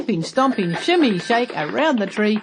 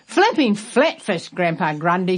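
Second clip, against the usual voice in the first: surprised exclamation. Acted. Millie exclaims over the wall.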